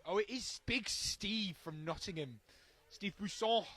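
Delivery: put-on a half-hearted go at a Nottingham accent. Commentator joking about a Nottingham player, lightly put-on Nottingham accent. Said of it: "I don't know why I went for that accent".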